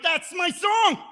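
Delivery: high, slow, joyful shout; excited cry. Retold or imitated. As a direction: call it out thrilled to hear his song. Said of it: "I'm like".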